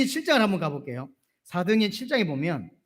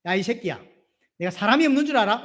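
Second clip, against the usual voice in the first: mock angry rebuke; 2 semitones higher than usual. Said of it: "이렇게 해야 되는데".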